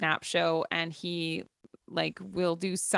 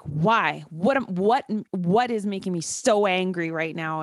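demonstrating exasperated questioning of yourself; mildly angry demand to know why; angry self-questioning; 4 dB louder than usual. Shown as a demonstration. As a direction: push out the questions, heated but controlled. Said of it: "then I'll start to be like".

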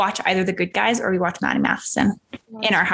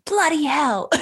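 put-on British accent; 7 semitones higher, slower than usual. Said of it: "driving thing was gonna be".

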